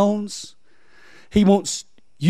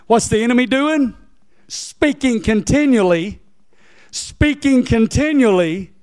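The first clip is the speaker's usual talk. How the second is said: raised-pitch sermon delivery with long-held words; fervent preaching; 7 semitones higher than usual. Real, not acted. Preacher stressing the night to his congregation, fervent preaching.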